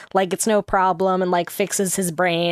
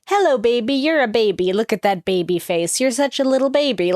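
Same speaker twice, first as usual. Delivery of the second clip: put-on lightly cooing baby talk to a pet, a touch higher; mild baby talk; 3 semitones higher than usual. Leo cooing at the dragon like a pet, light baby talk. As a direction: coo at a pet, only half committed. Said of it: "Leo would be like".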